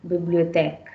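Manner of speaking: bibliothèque 读作 bi-bli-o-TEK; 示范 bibliothèque 的开口 è; French bibliothèque. Shown as a demonstration. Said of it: "Bibliothèque means library".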